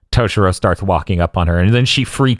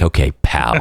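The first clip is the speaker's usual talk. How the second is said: imitating Byakuya; 7 semitones lower than usual. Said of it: "He's like".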